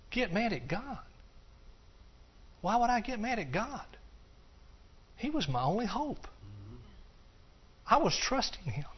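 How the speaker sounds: high, soft, wide-eyed disbelief; perplexed surprise. Retold or imitated. Sweet lady asked if she got mad at God, perplexed. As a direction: ask it gently, baffled anyone would think so. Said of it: "her eyes just real wide and, like, perplexed".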